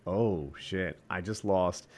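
mock dazed mumble. The beaten fighter's dazed mind, soft and low. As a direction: mutter it like a beaten brain waking up. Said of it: "reptile mind is like".

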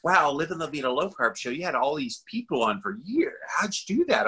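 impressed listener. Retold or imitated. Imitating amazed listeners asking about the guest list, impressed. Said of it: "people often say".

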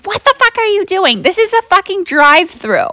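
high-pitched angry yell at the driver; mock furious lady. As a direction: shriek it like an outraged lady in line. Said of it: "and she goes".

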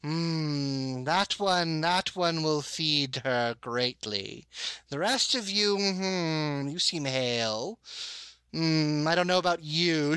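slow, relishing mild menace; understated gloating sea priestess; grinning sister. Acted. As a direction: savor each pick like a predator. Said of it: "She just sort of grins at you and says".

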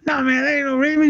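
high, hammed-up bluff; mock denial. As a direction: deny it's him, badly. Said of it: "he was like".

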